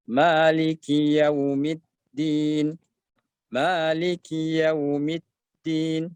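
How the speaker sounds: slow Maliki Yaumiddin with a two-beat ma; slow recitation. Shown as a demonstration. Teacher modelling the fourth ayat. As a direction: draw the ma of Maliki for two beats. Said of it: "ma, dua harakat".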